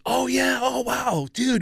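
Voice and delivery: high, soft wowed reaction; imitated amazed recognition. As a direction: play a spacey, wowed greeting. Acts John's delighted recognition.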